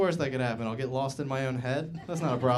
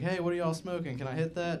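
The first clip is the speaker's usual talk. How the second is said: higher-pitched call, no added volume; mild mock yell; 5 semitones higher than usual. Homeless guy calling to two smokers, mild mock yell. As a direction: imitate someone calling over, lightly. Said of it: "he yelled out".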